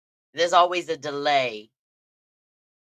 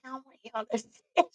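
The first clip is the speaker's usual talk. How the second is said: laughing dismissal; 8 semitones higher, 5 dB quieter, much faster than usual. Retold or imitated. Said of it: "I be like".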